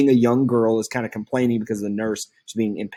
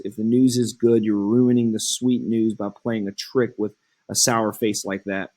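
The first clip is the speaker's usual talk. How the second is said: pleading Juliet. Acted. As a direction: coax the nurse gently. Juliet begging the nurse for news.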